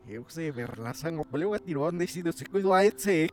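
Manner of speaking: gibberish spoken in reverse; backwards speech. Shown as a demonstration. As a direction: fake reversed talk, played straight. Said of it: "Yo sí sé hablar al revés".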